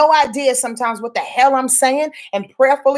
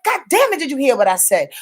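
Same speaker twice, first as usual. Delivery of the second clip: mock frustration; faster than usual. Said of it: "A little frustrated because people are not catching".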